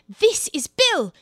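knowing aside. Acted. Alice readies her kick.

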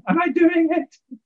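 squeaky high and slow; high, slow question. Real, not acted. Checking with the host, high and slow. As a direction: pitch up as a joke. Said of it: "joke on mic technique".

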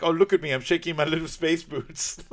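lightly voiced villain taunt; mocking Doctor Evil. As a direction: sneer it like a gloating villain. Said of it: "He's like".

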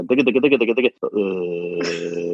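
a speaker's brain slipping into French, fading gibberish; mock French gibberish. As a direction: rattle off nonsense syllables, then let them fade. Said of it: "you go".

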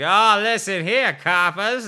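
half-hearted hammed-up taunt; mock tough stripper. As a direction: ham up a brash stripper taunting the crowd. Stripper mocking audience as cop.

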